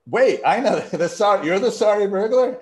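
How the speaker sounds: high, loud disbelieving burst through a laugh; the penny drops, go up high with a laugh; surprised realization. Retold or imitated. Cop realizing the kid is the sorry burglar, high surprised burst.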